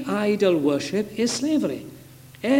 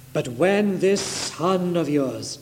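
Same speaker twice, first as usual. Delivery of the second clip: slow, mildly scornful retelling; callous, cruel; slower than usual. Retold or imitated. Elder brother disowning his brother to the father, mildly callous. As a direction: draw it out with mock disdain. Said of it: "cruel word".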